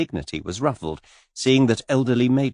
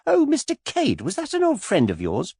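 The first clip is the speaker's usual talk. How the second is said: put-on much higher, girlish gushing voice; skittish young lady. A narrator's reading. Miss Taylor pestering Mister Cade, high and gushing. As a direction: flutter up high like a giddy girl.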